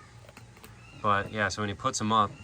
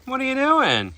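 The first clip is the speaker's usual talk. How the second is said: parrot voice; 13 semitones higher, 7 dB louder than usual. Real, not acted. Parrot talking.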